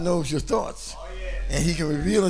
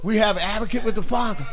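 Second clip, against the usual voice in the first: preaching. Acted. Quotes scripture in preaching.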